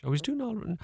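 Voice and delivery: squeaky caricature of a flustered teacher; mock Christian brother. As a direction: mimic the brother answering mother, way up high. Mother quizzing the brother, retold.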